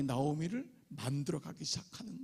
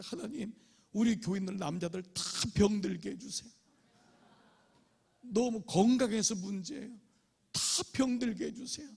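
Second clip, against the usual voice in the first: retold pleading prayer; 4 semitones higher than usual. Friend pastor's desperate prayer.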